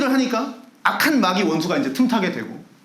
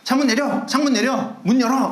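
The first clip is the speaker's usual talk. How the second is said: higher mock yell at a taxi driver; retold yelling; 5 semitones higher than usual. Angry pastor yells at taxi driver, higher mock shout. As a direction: pastor shouting at the cab, hammed up. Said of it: "소리 지르기 시작하는 거죠".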